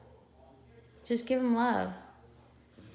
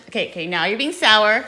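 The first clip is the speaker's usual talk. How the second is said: laughing through the words; 6 dB louder than usual. Real, not acted. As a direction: chuckle while teasing. Laughing at toddler squishing toy.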